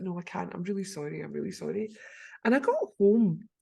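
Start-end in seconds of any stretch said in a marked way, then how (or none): 0.0-1.9 soft, sheepish retold apology; apologetic. Apologising to a woman whose name escapes her, sheepishly. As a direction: apologise softly, dropping the voice.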